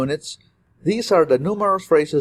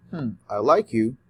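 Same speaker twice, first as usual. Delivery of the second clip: lower, hesitant musing take; doubtful hmm; 3 semitones lower than usual. Shown as a demonstration. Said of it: "it's very different say".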